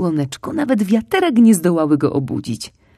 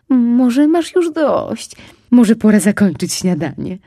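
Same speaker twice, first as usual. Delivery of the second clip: higher, slow, louder concerned mother; worried mother asking; 5 semitones higher, 6 dB louder, slower than usual. Acted. Mother fox worried her cub will overeat, gently asking. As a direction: coax him to stop eating. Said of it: "pytała".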